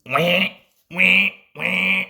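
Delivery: loud, mocking engine wah wah. A narrator's reading. Big engines jeering at Duck, loud mocking wahs. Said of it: "they wished".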